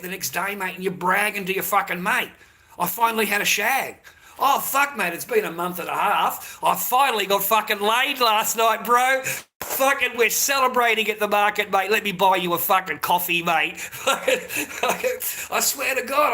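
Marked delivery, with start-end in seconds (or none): 2.8-13.8 louder, higher, bragging to a mate at the market; excited bragging. Retold or imitated. Man bragging to his mate at the market, loud and excited. 14.0-16.3 laughing through the words. Real, not acted. Man laughing while recalling his bragging days.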